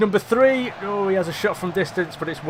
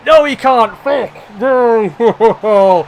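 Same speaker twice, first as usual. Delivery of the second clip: loud, high, anguished yell at the miss; real frustrated outburst; 5 semitones higher, 11 dB louder, much slower than usual. Real, not acted. Gamer watching his left back miss the hat-trick penalty, real loud frustrated yell. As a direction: shout out the disappointment as the penalty is saved.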